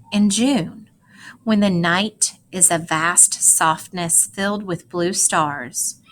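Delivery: measured poem read aloud to a class; expressive read-aloud of a poem; poetry reading. Acted. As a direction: read it like a poem, pausing on the images. Teacher reads poem aloud.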